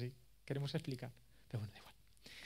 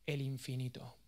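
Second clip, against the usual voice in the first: mocking tone; 4 semitones lower, 7 dB quieter, slower than usual. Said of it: "con sorna".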